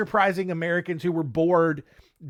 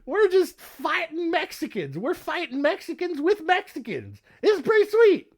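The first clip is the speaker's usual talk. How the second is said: dude; 10 semitones higher than usual. Retold or imitated. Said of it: "it's just like".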